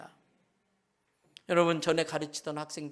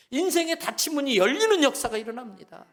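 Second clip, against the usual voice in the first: proclaiming loudly; 5 semitones higher, 6 dB louder than usual. Real, not acted. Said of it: "repeated declaration".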